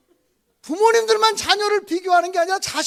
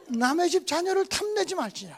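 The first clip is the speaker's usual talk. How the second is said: laughing quote; 3 dB quieter than usual. Retold or imitated. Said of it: "문학적으로 정리해 갖고 왔어요".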